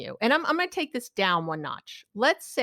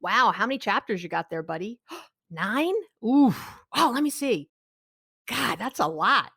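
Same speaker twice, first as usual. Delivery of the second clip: validating dad. Retold or imitated. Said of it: "which I did".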